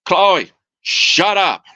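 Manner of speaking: slow, drawn-out mock parrot scolding; imitating the parrot. Owner mimicking his parrot scolding the other bird, slow mock parrot. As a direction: copy the bird telling Chloe off, slowly. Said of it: "you'd just hear him".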